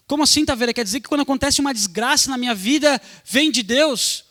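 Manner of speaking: loud, mock-astonished question; incredulous objection. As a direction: voice a listener challenging the preacher, loudly. Voices a startled listener's objection.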